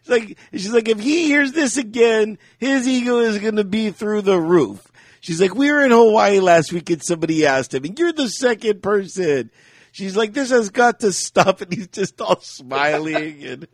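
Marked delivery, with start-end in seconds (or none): 0.9-4.9 high-pitched mock British wife; hammed-up high British complaint; British accent. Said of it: "all in a British accent". 5.5-9.5 loud, quick mock British wife; hammed-up British complaint; British accent. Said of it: "all in a British accent". 10.3-11.6 high mock British wife; pitched-up British exasperation; British accent. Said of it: "all in a British accent".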